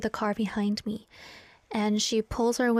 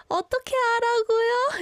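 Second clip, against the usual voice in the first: rapid, much higher flustered Korean question; 13 semitones higher, 4 dB louder, much faster than usual. Retold or imitated. Stuck driver asking the parking manager what to do, rapid and high. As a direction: blurt it out, baffled.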